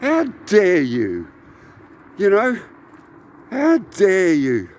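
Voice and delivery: slow, seething inner rant; 1 inner fury. Retold or imitated. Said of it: "And I thought".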